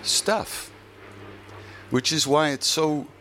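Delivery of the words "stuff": breathy high-pitched "Stuff"; whispered punchline. Real, not acted. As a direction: drop the word as a hushed reveal. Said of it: "punchline single word".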